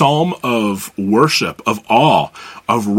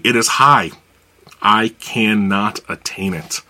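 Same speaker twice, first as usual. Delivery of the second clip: scripture reading. Acted. Pastor reading Psalm 139 to the congregation, solemn reading voice. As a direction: read it aloud as worship to the Lord.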